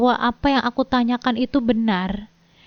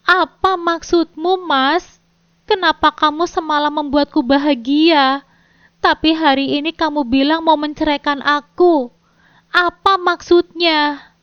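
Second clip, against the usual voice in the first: high, louder anguished outburst; shouting; 4 semitones higher, 4 dB louder than usual. Acted. Wife shouting at her husband over the divorce. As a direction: cry out at him, slowing on the question. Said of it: "Aku berteriak".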